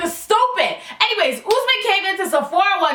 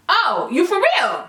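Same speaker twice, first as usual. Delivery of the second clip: slow disbelief; slower than usual. Retold or imitated. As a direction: stretch it out slowly, unimpressed. Disbelief at customer's return request.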